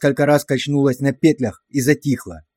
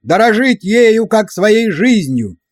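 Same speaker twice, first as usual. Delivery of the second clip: loud, higher, slow screamed chant; screaming with all might; 7 semitones higher, 4 dB louder, slower than usual. A narrator's reading. Soldiers bawl the prayer at full voice, screamed. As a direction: strain the throat on every word. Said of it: "солдаты вопили, что есть мочи".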